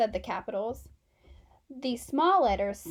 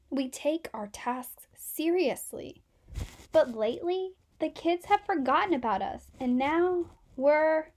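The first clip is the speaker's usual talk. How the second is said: a lightly voiced whiny group of letters; lightly voiced letters, fading to a whisper; complaining capital letters; 4 dB louder than usual. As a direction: plead their case, then fade.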